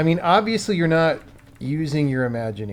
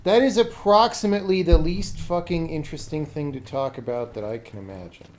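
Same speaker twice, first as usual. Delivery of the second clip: louder, dismissive put-down of a dull question; exasperated brush-off; 2 semitones higher, 4 dB louder than usual. Real, not acted. Streamer snaps back at chat's question, exasperated. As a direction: scoff at the question, then let it drop. Annoyed reply to chat question.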